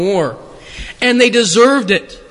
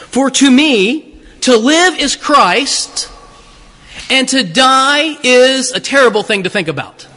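slow, mock-solemn misreading of the verse; mock misquote. Shown as a demonstration. Preacher misquotes Paul to the congregation, mock-solemn. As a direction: misquote it slowly and sweetly. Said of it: "That's not what he says".

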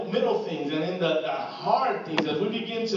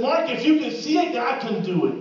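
recalled mentor's words; 6 semitones higher, 6 dB louder than usual. Retold or imitated. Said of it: "I remember a man says".

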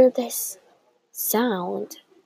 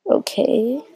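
doubtful, higher, rising okay; skeptical; 4 semitones higher than usual. Acted. Pedro doubts the plan to tackle the triplet, skeptical. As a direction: agree reluctantly with a questioning lift. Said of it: "in a skeptical voice".

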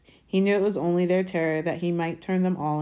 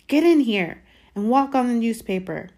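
raised, louder scolding call; bossy aunt calling, higher; 6 semitones higher, 7 dB louder than usual. A narrator's reading. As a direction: order him indoors. Aunt calls the boy in.

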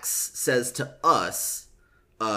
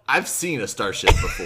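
laughing; 5 dB louder than usual. Real, not acted. Laughing while quoting Axe.

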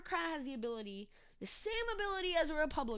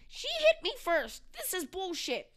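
high, drawn-out indignant yell; hammed-up protesting scream, easing slightly at the end; mock screaming; 7 semitones higher, 6 dB louder, slower than usual. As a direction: scream it slowly like an outraged accused man. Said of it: "screaming, quote unquote".

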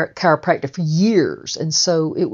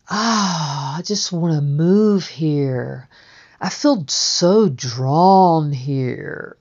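dazed awe; slower than usual. Retold or imitated. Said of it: "in this sort of daze".

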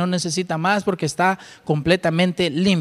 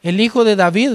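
imagined skeptic; 5 semitones higher than usual. Retold or imitated. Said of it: "cualquiera hubiera podido decir".

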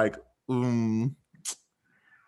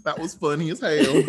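put-on playful Southern accent, slightly raised; 4 semitones higher than usual. Friend praising the performance in character, Southern accent. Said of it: "Okay, Southern accent, check".

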